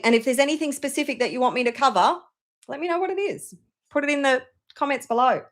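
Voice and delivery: dust in the throat; talking through a tickly throat; coughing on dust. Real, not acted. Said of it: "Sorry, I've suddenly got dust in my throat".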